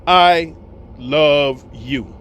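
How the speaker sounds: deliberate declaration with pauses between words; slow emphatic declaration. Acted. Telling my sister number one above all, slow emphatic declaration.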